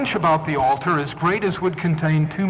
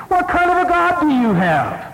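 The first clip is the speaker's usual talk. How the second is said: mocking taunt; 9 semitones higher than usual. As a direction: taunt them, egging them to shout. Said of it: "mocking them, mocking them".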